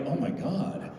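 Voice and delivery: breathy then high alarmed; gasp, then panic; hammed-up shock; mock panic. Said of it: "I'm like".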